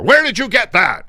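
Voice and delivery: loud, high-pitched angry yell; furious demand. Retold or imitated. Host imitating the racist boss storming in, loud and high. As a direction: bark it like the boss bursting in. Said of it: "kicks open the control room door".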